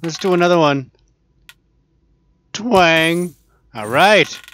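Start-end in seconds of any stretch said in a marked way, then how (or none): 2.5-3.3 a plucky spoken "twang" like a bowstring; twang sound. Shown as a demonstration. Vlogger correcting himself with a bowstring twang. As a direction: say "twang" as a mild imitated bowstring snap. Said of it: "This is a twang".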